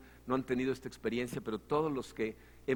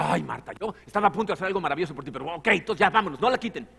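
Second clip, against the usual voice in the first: mock scolding Jesus; 2 semitones higher, 7 dB louder, faster than usual. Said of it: "la regaña, le dice".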